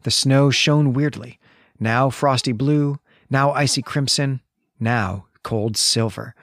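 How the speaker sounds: slow, measured literary narration; story reading. Acted. Host reads Howard's description of the snowy landscape, slow measured reading. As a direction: read the passage slowly, dwelling on each image.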